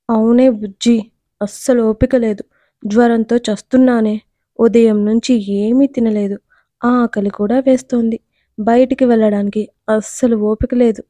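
ordinary delivery

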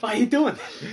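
high, whiny mock complaint; mock whining. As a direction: whine the question.

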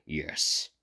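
slow, low robotic voice. Acted. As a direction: speak like a machine, evenly. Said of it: "replied with a robotic voice".

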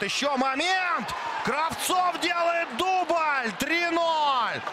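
rising shout, slowing on the name; excited goal call. Real, not acted. Commentator calls a second goal.

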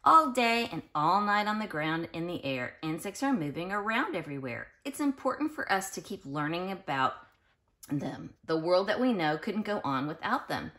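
lilting read-aloud storybook voice; sing-song storybook reading; reading to children. Acted. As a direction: read it like a bedtime picture book to little kids. Reads picture book to children.

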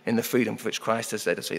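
ordinary talk, nothing marked

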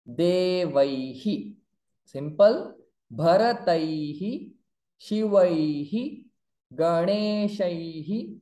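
Shivaihi, Devaihi, each ending in a short hi; visarga hi drill. Shown as a demonstration. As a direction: sound the visarga after ai as hi. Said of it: "Before visarga I". (recite ai words, each closing on hi)

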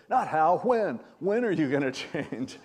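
emphatic imitated pastor's retort; blunt challenge. Pastor challenges the husband he counsels, blunt. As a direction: cut in with a pointed correction.

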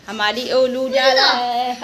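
slow, laughing and half crying; tearful laughing goodbye to Oreo; laughing through tears. Real, not acted. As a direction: let the goodbye crack between laugh and tears.

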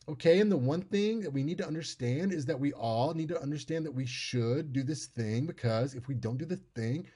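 monotone stuck in a high register, rising a little. Shown as a demonstration. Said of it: "it'll come out like".

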